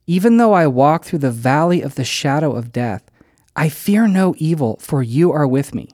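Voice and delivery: measured, solemn recitation; scripture reading. Acted. Pastor quoting Psalm 23 to his congregation, solemn recitation. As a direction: read the psalm with reverence. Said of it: "David says".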